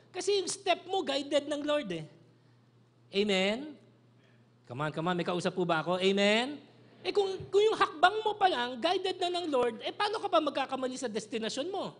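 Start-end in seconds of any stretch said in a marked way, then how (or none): 3.1-6.6 loud, rising call to the crowd; calling for response. Real, not acted. Preacher calling congregation to respond. 7.1-11.9 loud, high preaching at full force; fervent preaching. Real, not acted. Preacher climaxing point.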